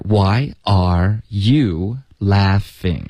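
"why are" 连读成 "wire"; 把 "why are" 连着念成 "wire"; 连读示范. Shown as a demonstration. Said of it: "它的实际发音是 "wire". ("why are" 读作 "wire" 的慢速示范)

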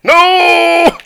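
high, loud panicked yell; alarmed shout. Real, not acted. Alarmed at teammate in danger.

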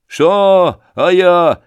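loud, high outraged yell; indignant shout. Acted. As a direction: bark it back in disbelief. Thug taken aback, shouting.

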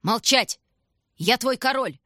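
loud, rising bark; furious command. A narrator's reading. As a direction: shut him up with rage. King keeps shouting.

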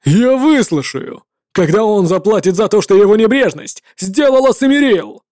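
a grieving knight shouting his grievance; angry paladin. Acted. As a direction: spit the blame out loud.

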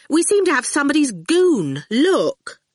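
high, anxious student voice; a flustered young woman, relieved he's home; fretful and high-pitched; Fifi, nervous. A narrator's reading. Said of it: "fidgeting nervously".

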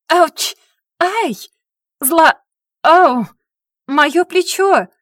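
high, loud yelps of pain; loud pained yelps, last one slow; yelping in pain. Acted. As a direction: yelp as each apple hits. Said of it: "вопил Весенний".

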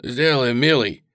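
a choked shout back to him; hoarse cry. Acted. Tearful merchant calls to the old man, hoarse cry. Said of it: "хрипло прокричал Усольщиков".

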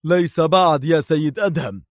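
stern challenge to an enemy; stern, angry. A narrator's reading. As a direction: answer with stern anger. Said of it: "صوت صارم غاضب يقول".

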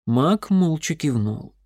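plain reading voice

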